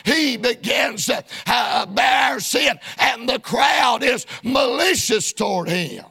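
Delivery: steady, insistent pulpit cadence; preaching. Real, not acted. Preacher on the mockers' half truth, preaching. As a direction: preach it in rhythmic phrases.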